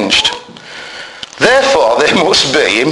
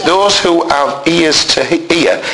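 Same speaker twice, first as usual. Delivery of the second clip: strained voice; slower than usual. Real, not acted. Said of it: "it's hard to say this".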